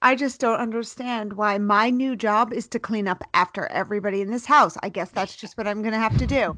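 mildly hammed-up long-suffering mom; martyred mom guilt trip. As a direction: sigh and guilt them like a put-upon mother. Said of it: "took out of my mother's playbook".

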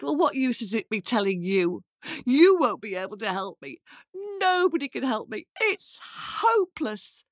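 put-on distraught girl giving up; despairing girl. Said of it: "she sobbed and she wailed".

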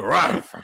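full dog bark. Shown as a demonstration. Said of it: "I need a full on".

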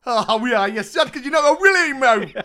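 put-on high, loud Geordie kid voice; Geordie accent. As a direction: play a cheeky Geordie lad. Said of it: "in a Geordie accent".

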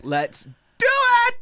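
high, loud, drawn-out hype cry; excited shout. Real, not acted. Co-host hyping up the start of the treats, excited shout. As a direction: belt it out high, stretching the words.

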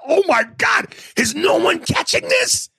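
high-pitched shout of mock horror; retold exasperated disbelief. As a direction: cry out in appalled disbelief, hammed up. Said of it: "I was like".

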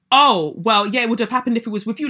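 breezy dismissive mimicry, rattled off fast; mocking nursery worker. Mimicking the nursery worker's brush-off, breezy mock. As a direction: toss it off like it's no big deal.

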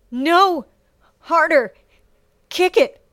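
loud, high screaming orders; pained scream. A narrator's reading. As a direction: scream it out through agony. Sasha screaming through the pain.

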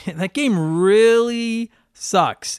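slow, laughing through the words; amused drawn-out laugh-talk. Real, not acted. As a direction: chuckle out how bad it is. Laughing at how bad game is.

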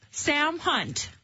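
name mumbled through a full mouth. Real, not acted. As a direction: cheeks stuffed full, words muffled. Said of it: "your mouth that full".

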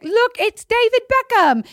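retold excited Jules. Jules in the movie points out a star, retold excitedly. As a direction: squeal it as an imitation, way up high. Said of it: "Jules is like".

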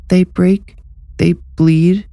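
put-on a ghost threatening through a child's mouth; sinister spirit through child. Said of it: "Through Anthony, he said".

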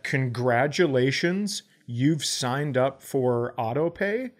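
drawn out slowly with rising ends; slow, pointed quote. Retold or imitated. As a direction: spell out the website message slowly and pointedly. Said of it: "And so I said".

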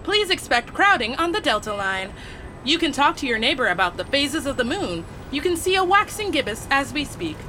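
train announcer over the PA; station announcement voice; through loud speakers. Shown as a demonstration. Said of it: "How about this?".

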